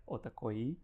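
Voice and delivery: Otakoi ending in a long ee, not yeh; correct pronunciation. Shown as a demonstration. Host corrects client on company's name, demonstrating correct pronunciation. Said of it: "It's pronounced like".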